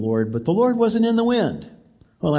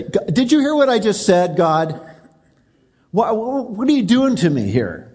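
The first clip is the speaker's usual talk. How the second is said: incredulous Elijah; 4 semitones higher than usual. Pretend. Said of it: "If I were Elijah I would say".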